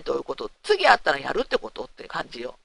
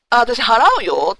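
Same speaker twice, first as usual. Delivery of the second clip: fed-up offer to pay; 3 semitones higher, 8 dB louder, slower than usual. Retold or imitated. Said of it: "って言ったの".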